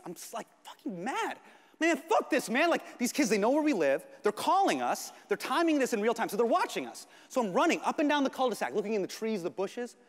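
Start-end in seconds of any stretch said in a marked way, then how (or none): 1.8-7.1 mild pissed rant. Retold or imitated. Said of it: "I'm pissed".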